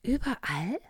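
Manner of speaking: a kindly little bear voice, high and loud. Acted. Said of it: "fragte der kleine Bär".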